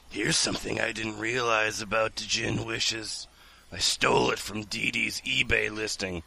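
lightly voiced online seller reading her listing; in-character seller. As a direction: read it like a slightly smug djinn seller. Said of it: "So I'm in character".

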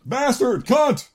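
swearing at the top of lungs. Acted. Both men swearing in the fight, bellowing. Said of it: "swore at the top of their lungs".

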